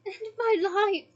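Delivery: drawn-out anguished yell. Acted. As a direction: bellow it out in agony. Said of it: "he yelled".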